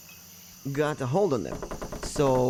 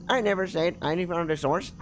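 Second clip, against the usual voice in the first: Dallas's voice; 5 semitones higher than usual. Shown as a demonstration. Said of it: "I think that's his voice".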